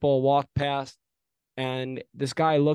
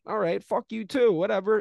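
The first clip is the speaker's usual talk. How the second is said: retold retort; 7 semitones higher than usual. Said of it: "and I was like".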